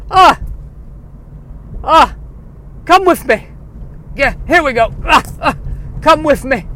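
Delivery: high wailing spirit voice; eerie beckoning, loud and high; ghostly call. Acted. Phil dragging the dead man's spirit.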